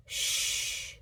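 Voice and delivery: unvoiced hush; a sharp whispered shh; shushing. A narrator's reading. Thief hushes the noisy toaster, whispered shh. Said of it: "said Leroy".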